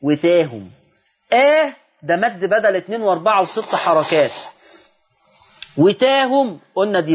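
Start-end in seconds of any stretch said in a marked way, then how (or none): 0.0-0.7 drawn-out wetehum with tilted a; split recitation syllable. Shown as a demonstration. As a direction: recite وتاهم with the tilted vowel. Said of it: "بتنقسم إلى آه".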